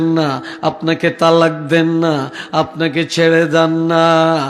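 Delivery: rhythmic half-chanted phrases with stretched endings; sing-song preaching. Acted. Preacher voicing God's reassurance to the Prophet, cadenced sing-song delivery. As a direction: intone each phrase, drawing out the last words.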